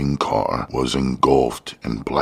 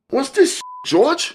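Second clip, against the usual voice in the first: very high, louder shocked yell; Curtis yelling; 3 dB louder than usual. A narrator's reading. Curtis realizing the destination, high shocked yell at George. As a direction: yell it out in alarm. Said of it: "Curtis yelled".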